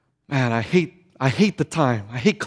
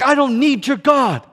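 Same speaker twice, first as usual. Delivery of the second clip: mildly defiant, pitched up; defiant boast; 4 semitones higher than usual. Retold or imitated. Drug dealer rejecting the preacher, defiant. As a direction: push back like a proud drug dealer.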